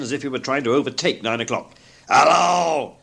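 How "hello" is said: loud, gruff mock-stern bark; feigned growl. A narrator's reading. Scrooge pretending to catch Bob out, growling loudly. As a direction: growl it like the old miser. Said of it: "growled Scrooge in his accustomed voice".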